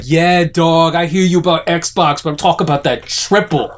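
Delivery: lightly voiced gym bro; laid-back bro riffing. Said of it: "doing this bro voice".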